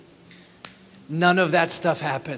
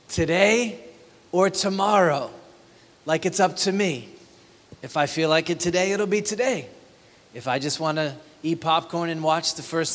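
swagger through it, lightly mocking; self-willed boast. Pastor mocks a self-willed churchgoer, smug. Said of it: "the different self-wills".

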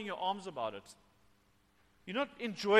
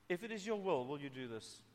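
soft, patient request, sinking lower at the end; humble prayer; 3 semitones lower, 8 dB quieter than usual. Shown as a demonstration. Preacher models praying to a holy God, softly humble. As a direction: ask gently and submissively, letting the voice drop. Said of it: "we still come in with patience and with humility".

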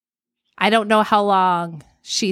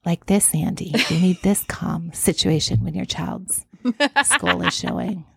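mock-calm demonstration, a little lower; 3 semitones lower than usual. Shown as a demonstration. Co-host showing Andy how to react, calm. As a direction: show exactly how a calm helper would sound. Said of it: "You need someone more calm".

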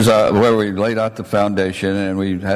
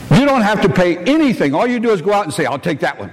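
high, amused, laughter breaking in; high chuckling punchline; laughing punchline; 8 semitones higher, faster than usual. Retold or imitated. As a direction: deliver the joke as laughter bubbles up. Punchline of his retold answer.

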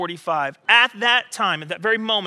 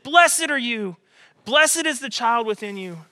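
higher and louder, the word "Blessed" lifted high; joyful exclaiming; 3 semitones higher, 3 dB louder than usual. Retold or imitated. Preacher acting Elizabeth greeting Mary, joyful exclamation.

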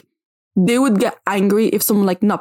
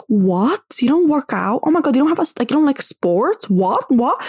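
mock gasping disbelief, higher; shocked disbelief; 5 semitones higher than usual. Gym fan mocking someone who skips workouts, in higher mock shock. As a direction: ham up their shocked reaction. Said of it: "They do the most and they're like".

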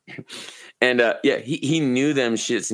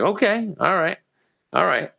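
taken aback; 8 semitones higher than usual. Retold or imitated. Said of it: "I was like".

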